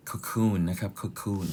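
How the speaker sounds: "cocoon" said clearly as kuh-KOON; pronunciation of cocoon. Shown as a demonstration. Teacher showing students how the word is pronounced, "cocoon" as kuh-KOON. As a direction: model "cocoon" with a long oo in the second syllable. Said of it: "คำนี้ออกเสียงว่า cocoon".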